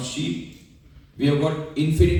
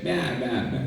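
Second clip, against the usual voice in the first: soft, laughing little baa; timid bleat; 4 semitones lower, 4 dB quieter, much faster than usual. Retold or imitated. The small lion answering the big lion with a meek bleat. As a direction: bleat meekly like a frightened lamb. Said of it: "The small lion said".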